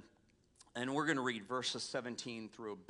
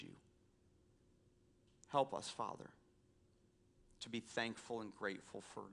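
soft, hushed prayer voice; 2 semitones lower, 4 dB quieter than usual. Acted. Pastor leads closing prayer.

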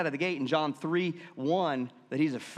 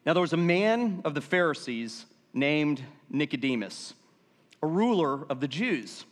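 ordinary talk, nothing marked

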